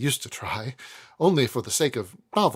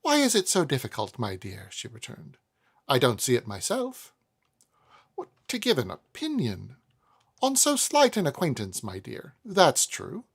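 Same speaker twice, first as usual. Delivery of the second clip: put-on proud old lady. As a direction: flatter Esther, then probe gently. Mrs Woodcourt voiced.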